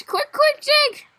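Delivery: very high, quick urging; high-pitched, excited rush; urgent hurrying. Real, not acted. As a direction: urge a friend to hurry. Rushing to board the train.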